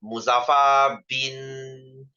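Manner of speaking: slow mock name. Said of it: "You should be glad that he is not".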